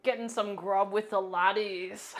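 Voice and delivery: light put-on Scottish accent. Chatting about grub with mates, in a light put-on Scottish accent. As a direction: say it like a lad from Scotland. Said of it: "now that's just Scottish".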